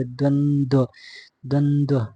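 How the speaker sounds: द्वंद्व slowly, ending on a full o; drawn-out model word. Shown as a demonstration. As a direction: say "dwan-dwo" for द्वंद्व, syllable by syllable. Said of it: "द्वंद्व ऐसे लिखा जाएगा".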